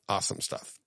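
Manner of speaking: breathy whispered awesome stuff; whispered aside. Real, not acted. Repeats awesome as soft aside.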